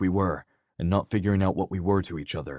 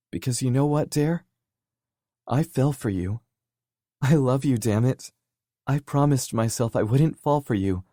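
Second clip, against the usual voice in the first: raised, higher pleading voice; impassioned; 4 semitones higher, 4 dB louder than usual. Acted. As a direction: let it break open, voice climbing. Kenzie's confession rises to a cry.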